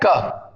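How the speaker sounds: क as a short hard "ka". Shown as a demonstration. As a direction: give the letter sound क, low and falling. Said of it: "उच्चारण क्या दे रहा है". (क, सी की ध्वनि)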